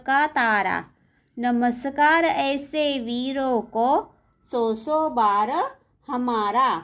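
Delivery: measured, drawn-out verse reading; poem recitation. Acted. Teacher reading a patriotic poem to pupils, measured recitation. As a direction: recite line by line, pausing after each phrase.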